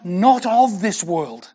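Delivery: slow, weighted "not of this world"; emphasis on "not of". Shown as a demonstration. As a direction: stress "not of" firmly, spacing out the words. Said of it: "The emphasis should be on".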